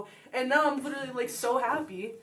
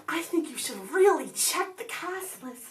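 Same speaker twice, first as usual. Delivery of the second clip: friend's urging; 5 semitones higher, slower than usual. Retold or imitated. Friend urging her at lunch.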